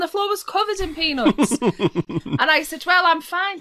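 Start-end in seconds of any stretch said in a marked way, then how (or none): 2.8-3.6 prissy polite brush-off; very British politeness. Retold or imitated. Turning down peanuts in a Boston bar, primly British. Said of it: "And this very British".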